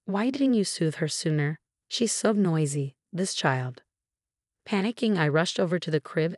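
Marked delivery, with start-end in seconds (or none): none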